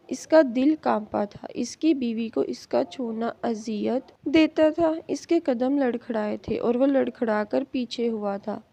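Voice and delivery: ordinary delivery, nothing marked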